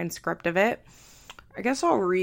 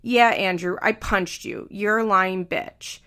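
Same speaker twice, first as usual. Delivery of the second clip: mildly sarcastic read-aloud retort; 3 dB louder than usual. Acted. Host reads Amber answering Andrew, mildly sarcastic tone. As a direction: toss it back with a touch of sarcasm. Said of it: "Amber, sarcastic tone".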